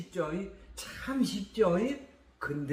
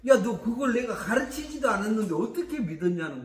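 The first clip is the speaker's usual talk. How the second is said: God amazed; 4 semitones higher, 4 dB louder, faster than usual. Retold or imitated. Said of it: "하나님이 더 깜짝 놀래".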